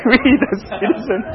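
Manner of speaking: slow, laughing recital of a pledge; giggling as the words come out; laughing through it. Real, not acted. Teacher tries the pledge with the class, laughing. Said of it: "Sorry, I haven't said it for a long time".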